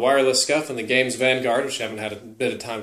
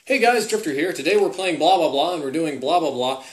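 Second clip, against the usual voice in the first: mock gamer intro; 2 semitones higher than usual. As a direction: parody a stock gaming channel intro. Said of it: "the traditional gaming with the little controller like".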